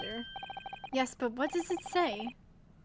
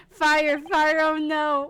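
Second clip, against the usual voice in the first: alarmed shout; 2 semitones higher, 8 dB louder, much slower than usual. Acted. Alarm in game, calling out.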